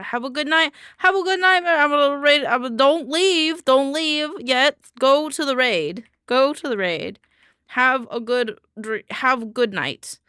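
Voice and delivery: loud goodbye. Real, not acted.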